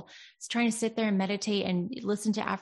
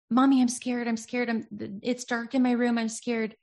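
slightly raised, lightly voiced frightened child; scared child; 3 semitones higher than usual. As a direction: plead to mommy, mildly acted. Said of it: "if there's a child that comes to you".

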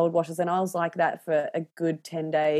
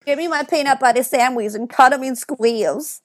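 put-on whiny child; 7 semitones higher, 7 dB louder than usual. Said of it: "the man flu".

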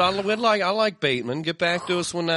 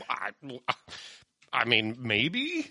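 hesitant Johnny Depp; 2 semitones lower, 7 dB quieter, slower than usual. Retold or imitated. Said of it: "he's like".

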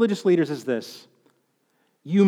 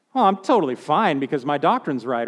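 smug self-assurance; 5 semitones lower than usual. Retold or imitated. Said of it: "tempting religious trapping here".

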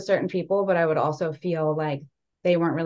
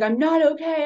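mock distress; 11 semitones higher, 4 dB louder than usual. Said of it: "I was like".

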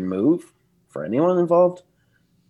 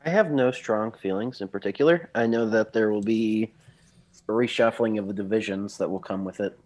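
hoarse, congested sick voice. Real, not acted. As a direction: talk through a cold, voice worn down. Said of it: "forgive me beforehand for having a sick voice".

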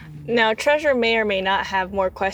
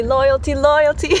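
loyalty, loyalty rising, louder each time; emphatic repetition; 3 semitones higher, 5 dB louder than usual. Shown as a demonstration. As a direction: hammer the word loyalty harder each time. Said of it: "So honesty and loyalty".

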